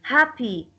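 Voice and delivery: "Happy" stressed on the first syllable. Shown as a demonstration. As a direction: lean on the Ha of "Happy". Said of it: "the stress will be on ha".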